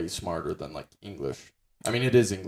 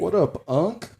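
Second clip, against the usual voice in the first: casual greeting; 9 semitones higher, 4 dB louder than usual. Retold or imitated. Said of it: "black people say unc".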